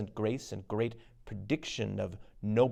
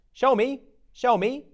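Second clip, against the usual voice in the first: high, loud witch clamour; high excited cackling plea; eager witch cry; 12 semitones higher, 7 dB louder than usual. Acted.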